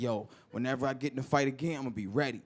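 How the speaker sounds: low, soft confident vow; quiet resolve; quiet determination. Retold or imitated. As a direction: promise yourself under your breath. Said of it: "I was like".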